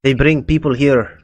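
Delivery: put-on slow, light Russian accent. Cultist telling of people brought here, Russian accent. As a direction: say it slowly with a slight Russian accent. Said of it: "a Russian, little bit of a Russian accent".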